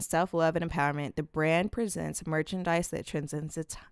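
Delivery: steady read brand statement. Acted. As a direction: read the copy evenly.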